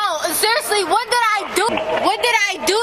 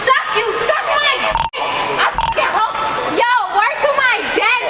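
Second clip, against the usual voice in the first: angry yelling; 4 semitones higher than usual. Real, not acted. Arrestee yelling and laughing at officers.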